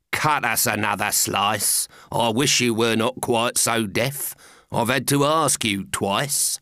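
lightly voiced dour carpenter; a hint of low grumbling; blunt carpenter. Carpenter nags walrus for bread, mildly grumbling. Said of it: "The carpenter said nothing but".

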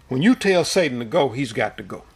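firm, polite, measured command; stern but polite. Retold or imitated. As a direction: state it calmly, leaving no room for doubt. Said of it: "he said it sternly, politely, but sternly the first time".

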